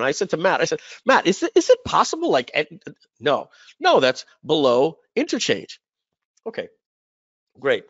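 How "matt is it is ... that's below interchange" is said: much higher-pitched retold question; puzzled asking. Speaker asking Matt about the impossible rate, puzzled asking. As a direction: stammer it out in high-pitched doubt.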